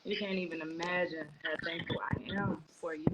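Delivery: whispered thanks, barely voiced; emotional whisper. Real, not acted. Mother whispering her thanks to Rahima, softly unvoiced. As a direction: breathe the words out, overwhelmed.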